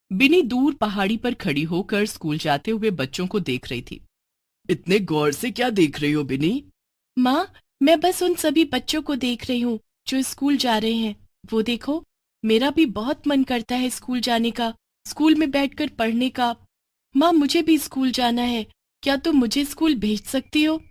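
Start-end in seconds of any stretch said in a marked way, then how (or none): 4.7-6.6 a touch lower, calm motherly witch; gently asking her daughter; lightly voiced witch mother. Mother witch asking daughter, lightly lower voice. 7.2-20.8 put-on higher, eager little girl voice; a child pleading to go to school; young girl Bini. Witch daughter begging mother for school, higher girlish voice.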